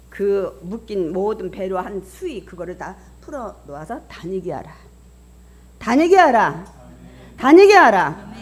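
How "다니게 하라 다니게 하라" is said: booming, raised command; loud proclamation. Acted. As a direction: proclaim it to the congregation, building in force. Proclaims Jesus' command to congregation. (힘차게 선포하는 명령)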